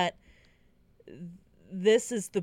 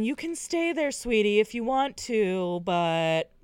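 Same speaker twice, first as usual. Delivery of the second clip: mock sweet parent; 3 semitones higher than usual. Parents telling her to stay, high sugary coaxing. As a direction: coo it like an overly sweet parent. Parents voiced in retold story.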